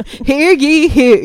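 loud mock town crier call. Mock proclamation of the deal.

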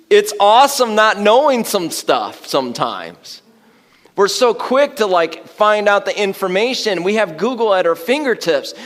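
preacher rising to a laughing climax; preaching at full force. Real, not acted. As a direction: push up to a fervent, laughing peak.

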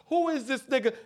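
mock indignant question. Retold Americans sneering.

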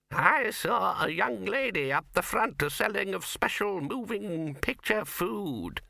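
put-on very high, slow, quavering old man; the stubborn old codger drawls; high slow old man's defiance.

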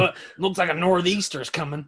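attempted New England accent, quick; a try at a New England accent. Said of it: "that's not a New England accent".

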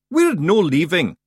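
loud, slow high Scottish call; rally the lads; Scottish accent. Acted. Feegle voice.

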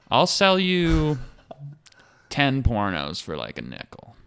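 slow sly dealer pitch; shady salesman. Pretend. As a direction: sell it like a sketchy hustler.

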